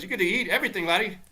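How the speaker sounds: high-pitched put-on voice making an offer; high, friendly mock offer; Gary Player. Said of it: "Gary Player walks up and he".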